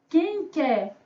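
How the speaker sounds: loud, very drawn-out sales cry on the last word; sustained hawker's chant; street vendor's call. Pretend. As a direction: call out your wares, holding "ônibus" long. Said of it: "Vamos vender essa palavra?".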